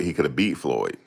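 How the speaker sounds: ordinary delivery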